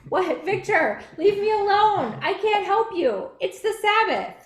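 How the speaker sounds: hammed-up huffy puppet voice; puppet Aurora refusing. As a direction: shoo away a friend, prim and dismissive. Pastor voices Aurora refusing help.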